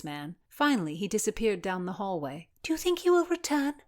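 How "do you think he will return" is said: rueful. Acted. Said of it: "Constance asked ruefully".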